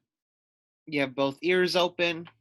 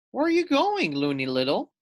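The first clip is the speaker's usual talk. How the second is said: questioning bird; 5 semitones higher, faster than usual. Acted. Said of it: "asked Dovekie Lovekey".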